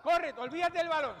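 loud shouted instruction; barking gym coach. Real, not acted. Coach calling player in drill.

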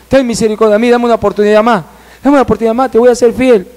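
high, urgent retold begging; acted pleading for mercy; tearful plea. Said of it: "ya venía llorando y pidiendo misericordia".

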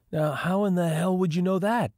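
high, disbelieving question; incredulous man voice. A narrator's reading. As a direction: ask it in disbelief.

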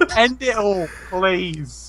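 mock desperation. Mock begging to end it all.

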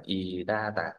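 "y đa tả" drawn out slowly with the R joined on; linked R. Shown as a demonstration. Teacher showing the class how to link letters, linked R. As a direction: run "y đa tả" together slowly, linking the R. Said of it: "mình phải nối chữ R lên".

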